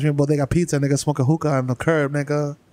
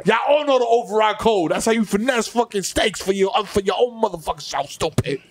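mock irate customer; 5 semitones higher than usual. Acted berating of a store cashier.

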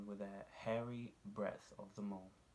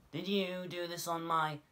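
little mole asking; 9 semitones higher, 8 dB louder than usual. A narrator's reading. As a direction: draw out an accusing question. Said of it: "he was going to ask again".

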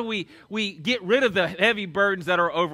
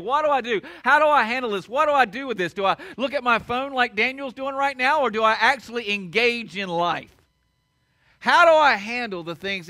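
higher, louder frantic questions; overwhelmed questions; 3 semitones higher, 4 dB louder than usual. Retold or imitated. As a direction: play the swamped coworker pleading. Overwhelmed coworkers asking questions.

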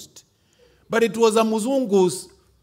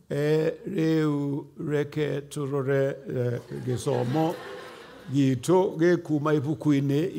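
put-on slow, low foreign-accented Kikuyu reading; mzungu missionary accent; 8 semitones lower, 9 dB quieter, slower than usual. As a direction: mimic a missionary stumbling through Kikuyu. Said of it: "that tune of that Muzungu who is trying to speak Kikuyu".

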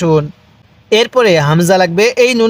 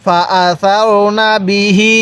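"ফা আসারনা বিহি" drawn out very slowly, each vowel stretched; slow recitation demo; much slower than usual. Shown as a demonstration. Teacher reciting a Quran phrase for students to repeat, very slow. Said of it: "আমার সাথে পড়ুন".

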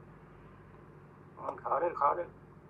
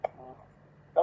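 ordinary talk

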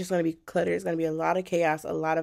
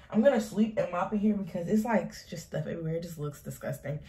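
winded, short of breath. Real, not acted. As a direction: talk while catching your breath. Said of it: "Oh, I'm out of breath".

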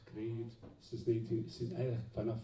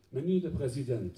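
loud, raised opening address; poem recital; 2 semitones higher, 7 dB louder than usual. Acted. Poet addresses the president, loud formal declamation. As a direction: declaim it like an open letter.

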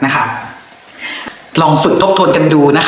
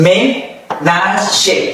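ménager slowly, each syllable apart; 4 semitones higher, much slower than usual. Shown as a demonstration. Teacher models ménager for learners, syllable by syllable. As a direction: pause between the parts of ménager. Slow model, then joined up.

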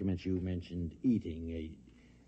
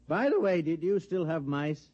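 much higher, louder, overly casual; forced casual; 8 semitones higher, 3 dB louder than usual. Acted. Bob Adams probing Gail about mice, overly bright. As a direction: slip the question in too brightly. Casual fishing question on phone.

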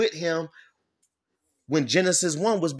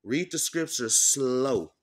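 slow; slower than usual. Shown as a demonstration. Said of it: "need to read it slower".

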